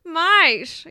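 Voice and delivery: Mate said as maɪʃ with a long falling vowel; Aussie mate. Shown as a demonstration. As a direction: drawl the word Mate. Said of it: "a little too enunciated".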